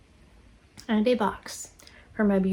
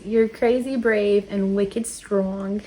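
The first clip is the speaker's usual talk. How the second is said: slow, drawn-out attempt at a Boston accent; bad Boston accent; much slower than usual. Shown as a demonstration. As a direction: try a Boston accent, not very convincingly. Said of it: "I had to say that in a Bo-, Boston accent".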